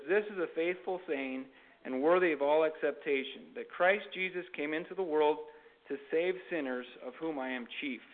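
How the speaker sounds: measured Bible reading with lifted phrase openings; scripture reading. Acted. Preacher reading Acts to listeners, formal scripture reading. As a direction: read the verses out to a congregation.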